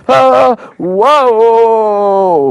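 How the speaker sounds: very high, loud hammed-up cry of fright; terrified crowd. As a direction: recoil from the huge serpent. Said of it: "people were so terrified".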